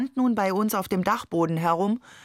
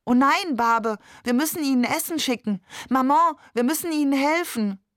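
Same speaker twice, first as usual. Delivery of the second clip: higher, louder, urgent outcry; alarmed pleading; 6 semitones higher, 3 dB louder than usual. A narrator's reading. Child begging father and mother to send food, alarmed.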